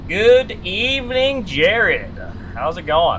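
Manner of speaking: high, slow, put-on butler voice; mock formal greeting. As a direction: greet him like a grand host, slowly.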